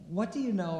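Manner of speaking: laughing while quoting dad; amused retelling; laughing question. Real, not acted.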